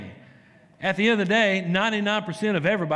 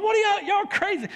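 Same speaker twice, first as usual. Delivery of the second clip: mock disbelief. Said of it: "I'm like".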